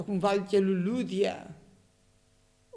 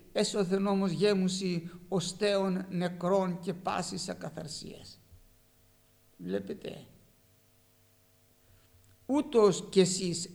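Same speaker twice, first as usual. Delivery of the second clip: slow, measured reading of the Gospel; solemn scripture reading. Acted. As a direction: read the verses slowly, like from the pulpit book. Reads Gospel passage aloud. (αργή, επίσημη ανάγνωση του Ευαγγελίου)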